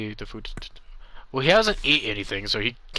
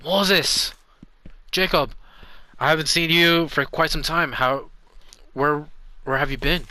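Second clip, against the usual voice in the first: higher, louder happy greeting; glad reunion; 5 semitones higher, 3 dB louder than usual. Acted. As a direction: hail an old friend you missed. Character greets old friend.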